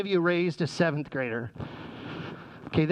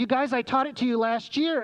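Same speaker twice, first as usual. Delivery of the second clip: exasperated, higher-pitched reminder; exasperated teacher; 6 semitones higher than usual. Retold or imitated. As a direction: remind forgetful pupils in a raised pitch.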